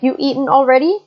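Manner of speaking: "already" tipped up as a question mark at the end; a light Malaysian-style "You eaten already?" ending in a rise; Malaysian English question. Shown as a demonstration. Teacher contrasting standard English with Malaysian English, lightly imitating a rising "already". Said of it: "you would hear something like".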